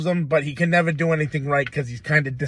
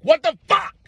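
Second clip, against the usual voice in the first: exasperated outburst; 13 semitones higher, 5 dB louder than usual. Retold or imitated. Driving too long through Connecticut.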